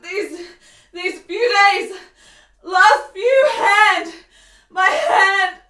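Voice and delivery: rising in pitch, breaking as the fit comes; a sick woman's panic building into tearful cries; pained, frightened gasps. Acted. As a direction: fight through a coming seizure. Seizure coming, woman in pain.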